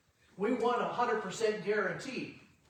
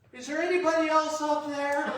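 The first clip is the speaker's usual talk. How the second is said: high, loud call for anyone else; loud punchline call up the cliff; hopeful shout upward; 8 semitones higher, 6 dB louder than usual. Acted. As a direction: yell it up, hoping for another answer.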